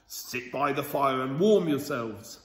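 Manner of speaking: a lightly voiced jolly shopkeeper, chuckling; pleased butcher. Butcher welcoming lost children, lightly voiced, chuckling. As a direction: greet the children with a hint of fake welcome. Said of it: "he was very pleased to see them".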